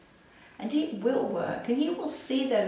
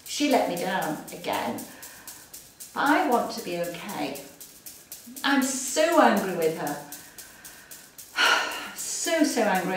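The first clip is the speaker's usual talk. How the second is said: acted anger, spoken. Shown as a demonstration. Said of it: "So getting back".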